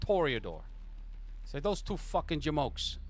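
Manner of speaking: high, fast outbursts; angry boss venting at the player; exasperated mob boss. Acted. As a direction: boss fuming about the failed meeting. GM voices Sal.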